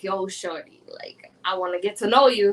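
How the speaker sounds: low, imitated come-on from a guy; chat-line guy. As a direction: lightly voice a guy hitting on someone. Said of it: "this guy was like".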